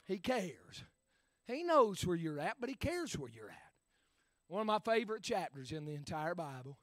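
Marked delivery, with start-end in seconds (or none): 0.1-3.6 much softer and lower after the shouting; soft, low afterthought; sudden hush. Acted. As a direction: pull the crowd in close. Drops suddenly after loud build.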